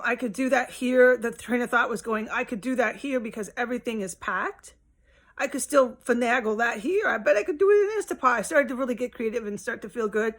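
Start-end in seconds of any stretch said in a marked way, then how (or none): 2.3-8.4 getting excited. Retold or imitated. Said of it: "I was getting excited".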